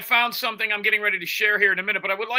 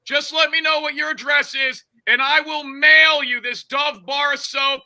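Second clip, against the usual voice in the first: roast him with fake generosity; mocking rant; 5 semitones higher than usual. Continues mock peace offering.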